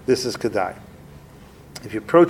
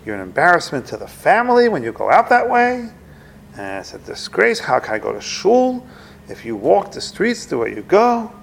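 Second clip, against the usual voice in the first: retold agitated father, somewhat higher; mock scolding father, mildly worked up; 5 semitones higher than usual. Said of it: "He is very agitated and upset".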